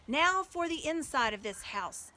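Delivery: rally the crowd; commanding call. Acted. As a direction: Aslan rousing the crowd. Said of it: "said Aslan".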